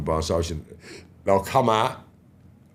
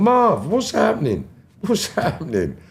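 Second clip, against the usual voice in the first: much higher, louder, delighted hello breaking into a laugh; cheery greeting; 12 semitones higher, 4 dB louder, slower than usual. Retold or imitated. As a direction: call out like an old friend, then laugh. Carlton greets him cheerfully.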